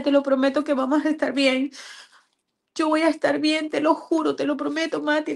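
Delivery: high, emotional reassurance; tearful promise. Retold or imitated. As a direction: promise your dying child you'll cope, near tears. Mother retells promise to dying daughter.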